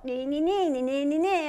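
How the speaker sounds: a nagging nee-nee chant, lightly voiced; mock nagging. Preacher mocking the devil's nagging guilt, taunting chant. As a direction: imitate guilt nagging in your ear. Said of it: "that's the devil trying to work in you".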